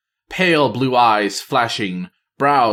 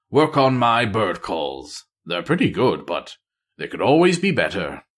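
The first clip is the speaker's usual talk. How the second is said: lightly voiced wistful spy. Voices Matthias dreaming aloud.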